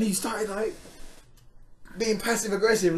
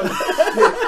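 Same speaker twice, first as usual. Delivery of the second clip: voice breaking; 6 semitones higher, 9 dB louder than usual. Retold or imitated. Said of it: "Literally, my voice broke".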